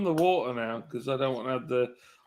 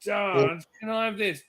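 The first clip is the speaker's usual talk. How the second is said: put-on higher, whiny child asking Dad over and over; imitating his kids; 4 semitones higher, 4 dB louder than usual. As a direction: mimic a nagging kid, pitched up. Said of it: "your kids sound nothing like that".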